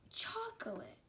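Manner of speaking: a sudden hushed whisper for the punchline; dramatic whisper. Acted. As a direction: whisper the reveal, high and hushed. Dramatic reveal of dog's snack.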